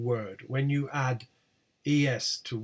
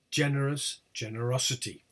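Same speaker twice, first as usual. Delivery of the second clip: GENEROUS on GEN, GENEROSITY on OS; stress shift. Shown as a demonstration. Teacher showing attracted stress, shift to OS. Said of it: "They attract the stress".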